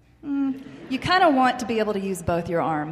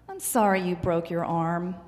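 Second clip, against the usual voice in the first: empathizing; 4 semitones lower than usual. Shown as a demonstration. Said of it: "is empathizing".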